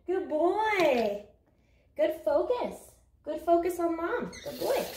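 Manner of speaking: high, sing-song praise for a good dog; high happy dog-praise voice. Real, not acted. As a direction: coo approval up at the pup. Praising her service dog.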